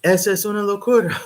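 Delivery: put-on high, loud scandalized old-relative voice in Spanish; mock an outraged older relative; hammed-up horrified auntie; mocking shocked elders. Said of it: "the older people in my family are going".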